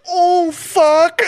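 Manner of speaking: high laughing mock moan; laughing impression. Imitating the guy, laughing high. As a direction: crack up while imitating him. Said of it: "He's like".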